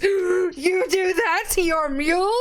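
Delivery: aghast. Acted. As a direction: recoil in disbelief. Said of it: "he kinda looks aghast at you and goes".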